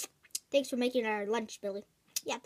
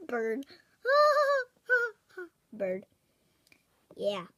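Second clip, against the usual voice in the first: laughing; 5 semitones higher, slower than usual. Acted. Repeating the insult while laughing at the neighbour. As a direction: say it through high laughter. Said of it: "your laughs sound like a bird".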